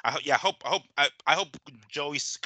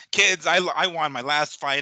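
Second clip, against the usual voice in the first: lightly acted dad, slow, louder and raised; mock boxer dad; 4 semitones higher, 5 dB louder than usual. Boxer telling his kids he won, mock-proud dad. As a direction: announce it slowly like a boasting dad. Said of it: "He's gonna be like".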